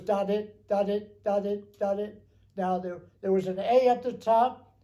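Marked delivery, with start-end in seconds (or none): 0.0-2.2 radio B signal. Shown as a demonstration. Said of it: "The B was".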